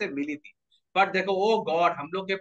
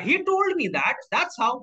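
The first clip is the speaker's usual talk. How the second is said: put-on girl voice; 5 semitones higher, much slower than usual. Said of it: "बोला".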